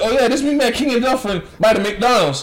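high, loud country-bumpkin American; mock country American accent. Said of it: "that's my American accent".

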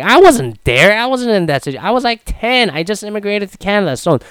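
answering the critics, high and defensive; defensive protest. Retold or imitated. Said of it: "And I'm like".

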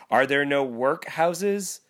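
the spirit turns Scrooge's cruel words on him; cutting mock echo. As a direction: throw his own words back at him. Spirit throws Scrooge's words back.

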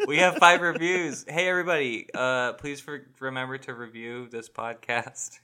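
weary plea to review; tired begging for reviews; defeated. Pretend. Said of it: "Why do you sound so defeated?".

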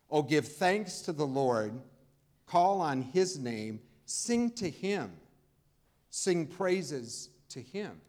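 slow, emphatic verse reading; scripture proclamation. Acted. Preacher reads the psalm to the congregation, slow proclamation. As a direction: declaim the verse slowly and firmly.

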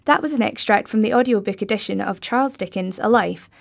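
ordinary delivery, nothing marked

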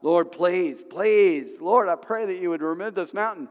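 drawn-out pleading with God; mock begging. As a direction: imitate someone begging in prayer. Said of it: "too many people begging God".

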